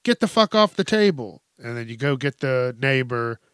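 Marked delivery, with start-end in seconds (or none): 0.0-1.4 high, loud yell at the dog; mock outraged yell, pitched way up; shocked shout. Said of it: "you're like".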